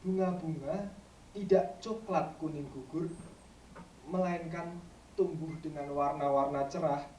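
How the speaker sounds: measured verse, strong openings and long pauses; poetry recitation. Acted. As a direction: recite it line by line to an audience. Recites second poem.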